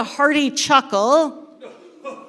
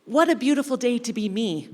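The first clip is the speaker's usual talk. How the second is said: smug; 5 dB quieter, faster than usual. Acted. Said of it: "with a smug little grin, and say".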